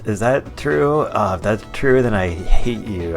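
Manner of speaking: high, loud disbelief turning to outrage; shocked outrage. Acted. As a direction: gasp it out in mock horror. Mock outrage at microtransaction character.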